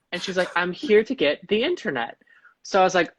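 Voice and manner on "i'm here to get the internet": mock British lady, pitched up; British accent. Older woman insists to store worker, mock British accent. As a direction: repeat the request in put-on British. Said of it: "I'll keep doing her as such".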